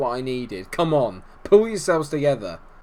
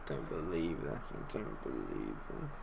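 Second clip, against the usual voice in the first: very low, barely audible mumble; stunned disbelief; 13 semitones lower, 18 dB quieter than usual. Real, not acted. Gamer stunned by the late goal, hushed disbelief. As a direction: drop to a deflated, hushed low voice.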